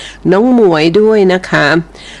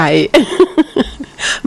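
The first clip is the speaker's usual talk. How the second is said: หัวเราะ 1; 7 semitones higher than usual. Real, not acted. ขำเรื่องรุ่นอีที.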